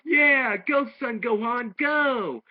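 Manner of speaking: high, loud cheering yell; imitating excited students calling out; crowd shouting. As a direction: cheer him on from the stands. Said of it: "they start shouting out".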